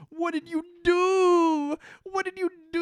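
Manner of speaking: hammed-up, sobbing boy screaming in despair; mock anguished crying. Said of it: "Jacob sees the whole scene and is just like".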